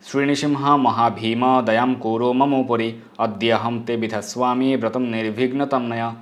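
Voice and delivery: slow, measured chanting of verse; a slow, devout recital of scripture; Sanskrit recitation. Acted. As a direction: intone it like a priest. Recites prayer mantra.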